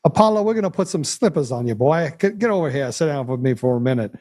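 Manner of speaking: put-on mobster, menace dressed as friendly talk; mobster accent. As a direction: threaten him like a movie gangster. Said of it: "Mob shows back up and says".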